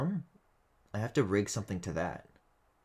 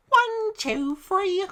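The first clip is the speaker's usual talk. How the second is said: strained, high and loud croak; mummy voice; 7 dB louder, much slower than usual. Retold or imitated. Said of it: "identical to the sound he's making".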